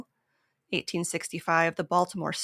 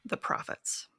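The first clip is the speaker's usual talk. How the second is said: whisper; 2 semitones lower, 6 dB quieter than usual. Real, not acted. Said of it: "conspiratorial sales pitch".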